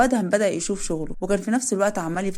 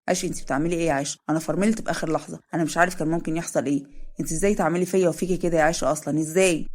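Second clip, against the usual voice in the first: a hint of a worried young man, slightly lower; lightly voiced Zein; 3 semitones lower than usual. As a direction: narrator dips into the husband's voice, anxious. Narrator voices Zein, shaken.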